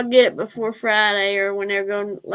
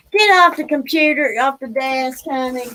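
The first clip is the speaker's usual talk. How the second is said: scolding the dog; 6 dB louder than usual. Real, not acted. Owner scolding her dog off the computer, loud and sharp. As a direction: bark the order at the dog off the desk.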